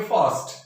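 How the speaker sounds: फास्ट with the R silent, just a slight 'a' sound. Shown as a demonstration. Teacher showing the R rule, फास्ट with silent R. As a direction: say फास्ट as "faast", no R. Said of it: "silent हो जाएगा और slight ए की आवाज देगा".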